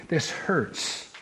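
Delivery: a breathless whispered plea, hurting; hushed plea. Retold or imitated. Paul pleading with the Lord over the thorn, whispered plea. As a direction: whisper it soft and unvoiced, in pain.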